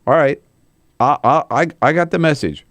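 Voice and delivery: mock Cruz caving. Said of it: "Ted Cruz turns around and says".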